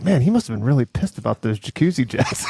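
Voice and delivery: put-on dopey Cato voice; imagine Cato musing in the kitchen; mock Cato.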